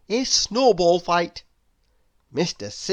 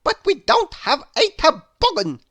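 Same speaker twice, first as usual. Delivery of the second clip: much higher, louder cartoon character voice; Mister Silly voice; 11 semitones higher, 6 dB louder than usual. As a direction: pitch him way up as a silly little fellow. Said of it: "said Mister Silly".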